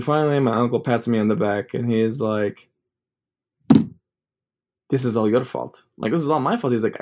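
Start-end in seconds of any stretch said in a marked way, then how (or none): 6.1-6.7 higher-pitched, stress on "my"; incredulous echo. Retold or imitated. Nephew answering uncle's blame, incredulous on "my". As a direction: throw it back in disbelief, lifting "my".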